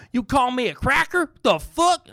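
high-pitched, outraged redneck question; mock offended redneck. Comic mimicking someone insulted by "cracker", indignant redneck. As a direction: play the redneck in hammed-up disbelief.

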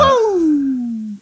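high, sustained wrestler whoop; the Menace's woo. Acted. Wrestler rallies the crowd, long high woo. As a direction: let out a Ric Flair woo. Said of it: "Ric Flair".

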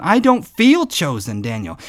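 a hint of whiny doubt; doubting reply. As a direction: sound unconvinced. Doubting listener voiced.

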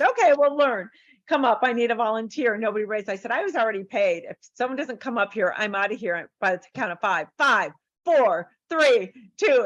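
rally a reluctant crowd; calling out to audience. Retold or imitated. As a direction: countdown called out to the room. Calling volunteers up on stage.

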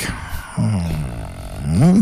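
long, low, soft hmm that lifts at the end; doubtful hmm. Retold or imitated. Recalling first impression of a song, doubtful hmm. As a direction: mull it over with a drawn-out, low hum. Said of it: "in the beginning, I was like".

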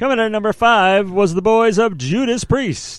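light countdown host announcing; hint of a radio DJ countdown; Casey Kasem. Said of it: "we're gonna go Casey Kasem here".

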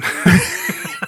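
a short breathy laugh. Real, not acted. Laugh after the joke.

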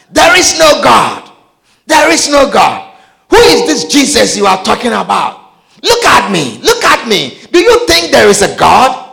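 loud, defiant shouting at the paramedic; angry cursing. Retold or imitated. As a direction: hurl it back in his face, furious. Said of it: "I cursed him and God".

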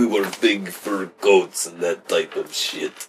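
slow mock-Russian accent; drawn-out cartoon Russian; Russian guy. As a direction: explain it slowly in a fake Russian accent. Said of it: "I can do a Russian guy".

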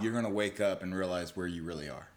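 hypnotist. Pretend. Plays hypnotist counting co-host awake.

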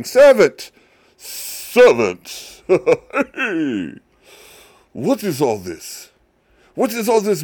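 loud, high-pitched indignant calls for the servant; older son calling out. Acted. Older brother shouting for a servant over the party noise. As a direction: bellow for the servant, outraged. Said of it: "that's what I think, you know, how he would sound".

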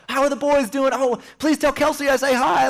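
high, chirpy family hello; relative greeting. Retold or imitated. Relative on a Christmas FaceTime call, high cheerful hello. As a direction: greet him brightly on the call. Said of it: "my cousin Johanna's on there being like".

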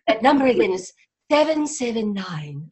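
a hint of a posh English accent reading out a phone number; Liz Hurley impression. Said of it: "do my Liz Hurley impression".

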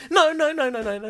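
high, loud quick no's; fussy protest. Acted. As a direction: stop him fussily. Fussy cocktail order.

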